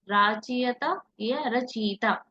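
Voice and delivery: राचयिता with long आ versus रचयिता short, slowly; contrast of spellings. Shown as a demonstration. Teacher contrasting two spellings for students. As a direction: set राचयिता against रचयिता, drawing each out. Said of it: "सही वर्तनी कौन सी होगी".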